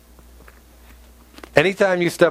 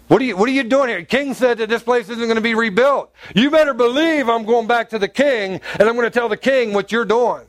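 higher-pitched, mock indignant threat; accusing; 5 semitones higher than usual. Opponent threatens builders with the king, accusing. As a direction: accuse them in an acted, raised pitch. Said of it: "now he's actually making accusations".

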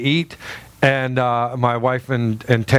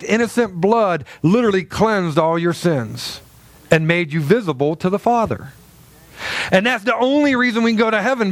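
higher-pitched, insistent preacher's delivery; earnest preaching; 4 semitones higher than usual. Acted. Pastor explains God's love to the young woman, earnest preaching. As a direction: press the gospel home, pitch raised.

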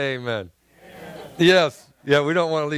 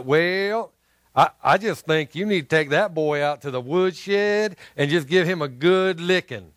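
bad Southern accent. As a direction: imitate Andy Griffith with a rough Southern accent. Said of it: "bad Southern accent".

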